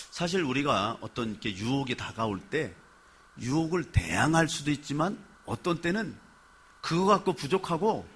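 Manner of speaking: ordinary delivery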